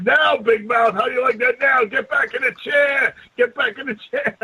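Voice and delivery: gloating Paulie. Retold or imitated. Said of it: "he was like".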